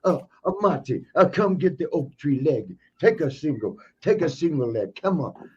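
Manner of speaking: lightly voiced wrestler's taunt; a hint of a put-on goading voice; imitating Sheik. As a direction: coax a rival to shoot in, mimicking. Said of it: "so he did it so much".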